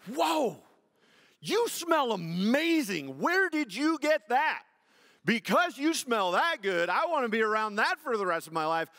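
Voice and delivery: high, hammed-up gushing; mock smitten. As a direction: play an over-the-top infatuated suitor. Mock version of Boaz smitten.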